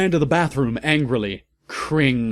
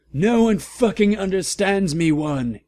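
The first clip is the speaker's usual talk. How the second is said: hammed-up high angry shout from Draco; 7 semitones higher than usual. A narrator's reading. Draco yells at narrator, hammed-up high angry shout. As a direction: squeal it like a sulky goth boy. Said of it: "he shouted angrily".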